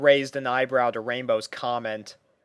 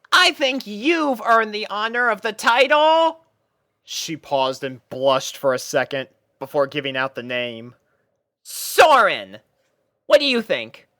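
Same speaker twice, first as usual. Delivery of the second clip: higher, louder pony voice taking charge; a pony captain lining up her troops; higher pony voice addressing puppies; Rainbow Dash voice, bossy and bright; 8 semitones higher, 6 dB louder than usual. A narrator's reading. Rainbow naming Soren.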